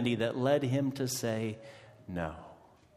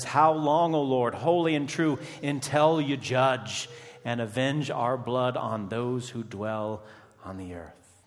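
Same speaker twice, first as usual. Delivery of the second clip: loud pleading cry that fades away; 2 semitones higher, 4 dB louder than usual. Acted. Martyrs crying to God for judgment, loud plea. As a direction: call up to the throne, then let it die off. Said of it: "A cry goes out to God".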